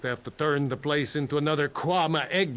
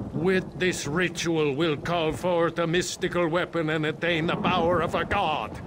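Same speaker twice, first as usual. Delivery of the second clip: quoted cultist proclamation; 3 semitones higher than usual. Retold or imitated. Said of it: "I heard one of them say".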